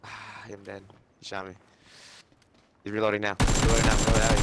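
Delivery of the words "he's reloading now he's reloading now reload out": shouted callout. Real, not acted. Urgent callout repeated louder.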